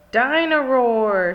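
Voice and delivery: put-on slow, loud little-boy cry; toddler George voice. A narrator's reading. George naming his new toy, slow and loud. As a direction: stretch the name out big and loud. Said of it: "says George".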